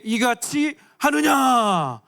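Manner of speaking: slow, drawn-out protesting shout; stretched complaint to Moses; complaining cry. Acted. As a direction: cry it out in grievance. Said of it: "그들이 또 모세에게 이르되".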